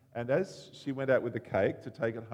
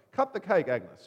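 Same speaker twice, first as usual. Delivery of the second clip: gruff; 7 semitones higher, 8 dB louder than usual. Retold or imitated. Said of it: "is a bit gruff in his manner".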